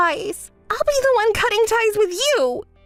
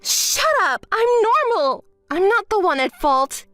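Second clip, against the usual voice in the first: higher, shouted denial; angry denial; 4 semitones higher than usual. Acted. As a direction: snap back defensively.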